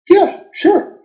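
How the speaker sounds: put-on squeaky, eager kid reply; eager high yes. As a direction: jump at the chance, high and bright. Eager kid agreeing to teacher.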